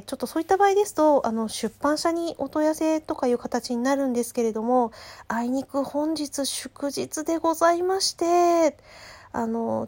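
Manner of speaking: courteous phone-shop apology; customer service voice. Retold or imitated. Clerk continues apology. (丁寧な接客ボイス)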